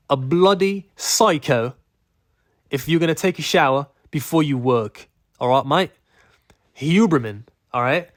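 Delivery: hammed-up British bloke, calling someone mate; a hint of a British accent, playful; mock British accent. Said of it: "why you made that accent".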